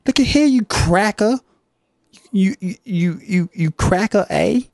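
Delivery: high, squeaky Canadian rant; a hammed-up Canadian yelling insults; angry Canadian character. Canadian man yelling at the interviewer, high and hammed-up.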